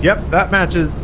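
camera voice. Retold or imitated. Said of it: "the camera says".

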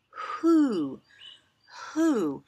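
playful owl-like who; owl hoot. Shown as a demonstration. Teacher playfully hooting who for kids. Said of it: "That sounds almost like an owl".

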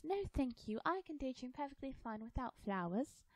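put-on high, indignant girlish refusal; mild acted near-yell. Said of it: "Alice near yelled".

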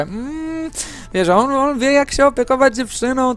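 high-pitched impression of a Black woman; imitated Black woman's voice. Retelling what the funny woman said about men, imitated Black woman's voice. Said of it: "murzyńskim głosem".

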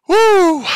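big intake then high whoop; exaggerated gasp for oxygen; showy breath. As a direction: gulp air and let out a high "woo". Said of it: "Sucking in that oxygen".

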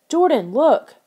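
high, loud call to a friend; urgent call. A narrator's reading. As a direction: call out to make them look now. Lauren urgently points out the puddle.

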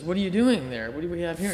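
a hint of a teacher catching someone out; teacher catching pupil.

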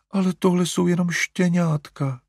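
put-on calm him down like a child; soothing. A narrator's reading. Mother soothing Larry about puppies, coaxing. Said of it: "konejšla ho maminka".

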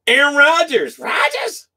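high excited squeal on Rodgers. Real, not acted. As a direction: yelp the name up high. Excited at a pull.

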